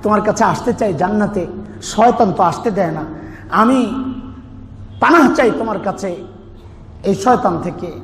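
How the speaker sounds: ordinary delivery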